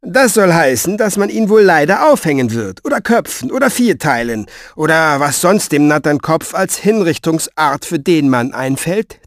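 grim, emphatic explanation; forceful start, settling as it goes on; irate old writer. Acted. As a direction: spell out the dire list testily.

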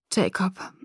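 soft, careful plea; gentle and calm. A narrator's reading. Bella pleads with Jacob, gently. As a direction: say the name softly, trying to stay calm. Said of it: "versuchte sanft und ruhig zu sprechen".

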